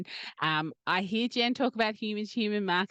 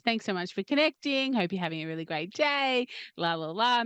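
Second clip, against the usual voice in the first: polite message voice. Retold or imitated. Host recites her usual thank-you DM, mildly friendly. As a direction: read out a stock thank-you note, easy and polite. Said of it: "send them a little message".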